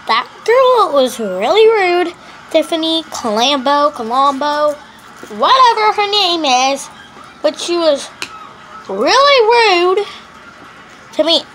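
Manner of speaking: indignant complaint. Pretend. Complaining as Janiyah.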